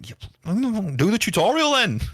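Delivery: very high, drawn-out put-on voice; exasperated mock cry. Developer to streamers who skipped the tutorial, high mock exasperation. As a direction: squeal it slowly in comic exasperation.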